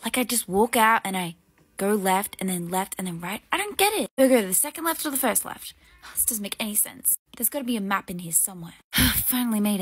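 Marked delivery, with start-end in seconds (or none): 0.0-5.1 confused outburst. Acted. Girl baffled by directions, complaining loudly. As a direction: throw up your hands in confusion.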